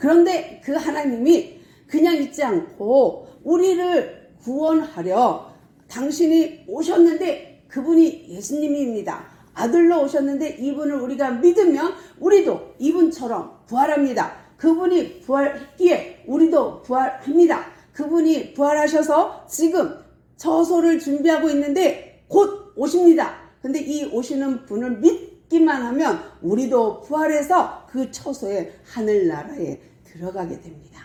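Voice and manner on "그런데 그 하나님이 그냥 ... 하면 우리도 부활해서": high, loud, declaiming shout. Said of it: "하고 발표를".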